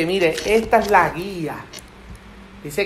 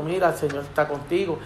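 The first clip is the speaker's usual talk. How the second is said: soft, lower reassurance; calm, gentle; 5 semitones lower, 8 dB quieter than usual. Acted. Believer encouraging someone about the Lord, calm and gentle. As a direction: say it quietly and gently. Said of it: "le habla tranquilito".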